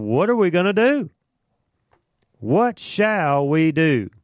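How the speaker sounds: panicked elders asking what to do; worried council. Retold or imitated. Council members panicking over the apostles, high and urgent. Council voiced in Bible study.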